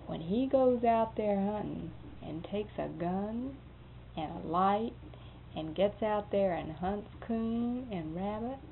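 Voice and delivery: slow, deliberate pronouncement; a hint of a stern lecture; serious. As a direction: spell out the law slowly.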